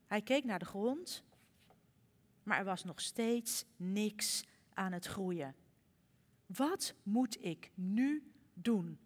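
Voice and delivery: lively storybook reading with voiced characters; gentle storyteller voice; reading to children. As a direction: read it like a bedtime story for little ones. Reads children's story in sermon.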